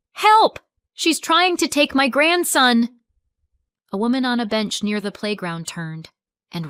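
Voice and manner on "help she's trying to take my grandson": very high loud cry for help; yelling for help. A narrator's reading. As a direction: call out to anyone nearby. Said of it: "She yelled".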